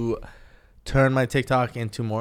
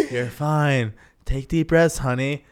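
imitating an unworried mother; mock-casual motherly reassurance; casual mom; 3 semitones higher, slower than usual. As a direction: reassure lightly, amused by the fuss. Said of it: "Your mom was so casual".

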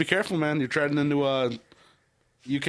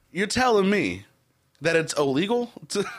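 bad English accent; 3 semitones higher than usual. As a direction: play an incredulous Brit, accent overdone. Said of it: "it's so bad".

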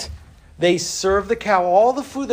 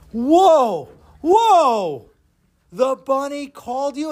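amazed crowd; 8 semitones higher, slower than usual. Acted. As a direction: gasp in awe at the trick.

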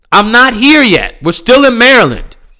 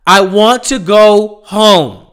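weary plea; 2 semitones higher, slower than usual. Real, not acted. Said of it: "repeated weary plea, first take".

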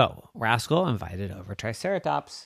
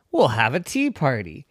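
put-on excited kid dinosaur; 12 semitones higher, 6 dB louder than usual. Excited idea.

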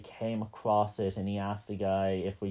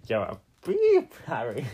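laughing through a mock line; 5 dB louder than usual. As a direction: crack up while saying it.

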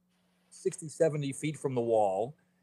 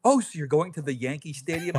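put-on mother's old phrasing; 3 semitones higher, 3 dB louder than usual. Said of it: "she'd go".

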